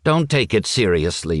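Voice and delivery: smooth it over gently; mild apology to an offended guest; apologetic. Acted. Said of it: "by way of apology".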